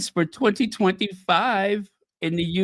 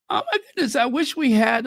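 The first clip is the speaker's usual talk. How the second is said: excited; 4 semitones higher, faster than usual. Real, not acted. Sudden delight in live stream.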